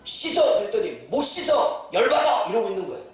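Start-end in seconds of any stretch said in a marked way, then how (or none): 0.0-0.5 curt order. Retold or imitated. Prophet's curt order acted. 1.1-2.5 mock indignant refusal. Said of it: "열받아합니다".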